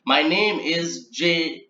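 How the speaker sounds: slow, halting name read; slow spelled-out start. Shown as a demonstration. Trainer demonstrating to transcribers, slow and deliberate. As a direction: trainer reading an example slowly. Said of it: "So it should be written as".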